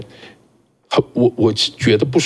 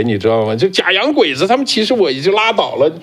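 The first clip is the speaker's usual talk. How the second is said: ordinary talk, nothing marked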